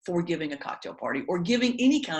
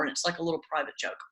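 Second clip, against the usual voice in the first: confiding whisper; 5 dB quieter, much faster than usual. Real, not acted. Confiding aside to audience.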